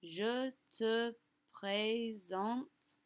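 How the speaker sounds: very slow, drawn-out "présente" with a clear ay vowel; accent aigu sound demo. Shown as a demonstration. Teacher letting learners hear the é in "présente", drawn out. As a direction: stretch each syllable of "présente" to show the é. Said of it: "Do you hear the sound that it makes?".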